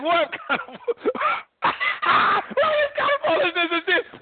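high, slow, laughing scornful shout; mocking Pharaoh. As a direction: scoff at the stick like a disbelieving king.

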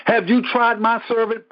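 preacher booming God's boast. Retold or imitated. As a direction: throw the question out with force. God's question repeated, louder.

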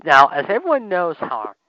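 hiccuping mid-sentence; talking through hiccups. Real, not acted. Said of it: "sorry, I have the hiccups a little bit".

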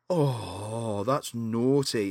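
low, slow little reproach; sad Gizmo. Retold or imitated. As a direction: imitate a sad, wounded little creature. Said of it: "he looks really sad".

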